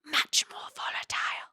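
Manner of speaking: a creepy breathy whisper; menacing whisper. A narrator's reading. The sage leaning close to Violet, whispering menacingly. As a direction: lean in and whisper the threat. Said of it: "he whispers".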